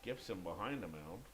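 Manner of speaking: low commentary voice; deep announcer voice. Pretend. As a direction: drop deep to set the scene. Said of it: "I have to go really deep".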